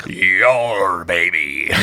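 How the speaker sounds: gruff pirate growl, light; pirate captain voice. Acted. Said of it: "pirate captain voice".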